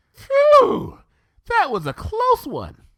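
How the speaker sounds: Pinkie, breathless relief; relieved Pinkie. Acted. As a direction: gush with relief. Pinkie relieved after save.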